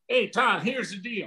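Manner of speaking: Ross Perot impression. Guest mimicking Ross Perot to Todd, lightly hammed-up twang. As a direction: mimic Perot folksily pitching a deal. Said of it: "here's Ross Perot".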